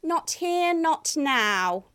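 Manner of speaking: a hint of a sneer. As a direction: sneer the refusal coldly. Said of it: "it sneered".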